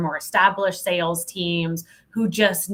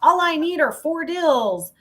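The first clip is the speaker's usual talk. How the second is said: put-on much higher, louder gung-ho young seller; hammed-up eager rookie, high and loud; younger self, gung-ho; 12 semitones higher, 8 dB louder than usual. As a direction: shoot off the lines like a cocky kid firing at everything. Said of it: "the speaker at twenty-three being like".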